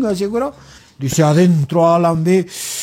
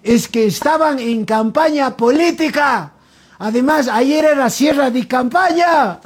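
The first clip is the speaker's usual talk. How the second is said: higher, mildly acted explanation; San Pedrito calling back; 5 semitones higher than usual. San Pedrito answers Alan from outside, lightly calling out. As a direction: call the punchline out from outside. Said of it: "San Pedrito de afuera le dice".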